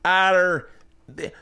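put-on high, halting Scottish accent sliding off course; botched female Scottish accent. Host praising a comedian, failing female Scottish accent. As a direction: struggle through a badly faked Scottish woman, giggling. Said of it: "I'll do female Scottish accent".

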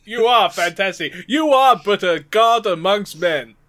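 hammed-up adoring flattery; sucking up. Underling worships the fantastic boss, sucking up. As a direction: lay the worship on thick. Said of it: "increase your sucking up".

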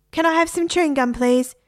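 high, squawky parrot begging for gum; a parrot pestering for chewing gum, high and insistent. A narrator's reading. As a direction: pitch it way up like a parrot nagging. Parrot voiced, quoted in narration.

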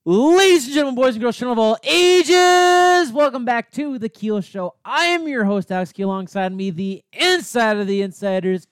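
very high, loud ringmaster call. Acted. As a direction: go all out, circus host. Final intro announcement.

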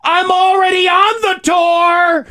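high-pitched mock shriek; yelling back. Camp guide answering the loudspeaker, exasperated yell. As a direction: imitate a guide hollering at a loudspeaker. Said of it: "she's yelling back at it going".

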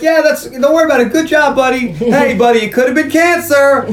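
high, loud, relieved bro voice; cheerful Bulldog. Retold or imitated. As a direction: cheer him up like a jock buddy. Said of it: "And like".

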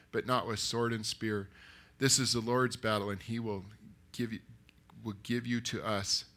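measured, firmly projected story reading; scripture narration. A narrator's reading. Preacher reading David's answer to Saul, steady narration. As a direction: read the Bible story out to a congregation. Reads the Bible story aloud.

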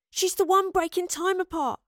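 high, tense, urgent accusation; hissed warning. A narrator's reading. Astrid warning Yarrow about Madeline, hissing urgently. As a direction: press the warning through a tightened voice. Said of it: "Astrid hissed at Yarrow in warning".

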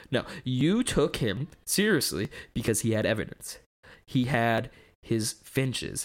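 theatrical skeptic's monologue with big rises; acted monologue. Auditioning friends, delivering a dramatic atheist monologue. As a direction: perform it like an audition speech. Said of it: "I forgot you were doing a monologue".

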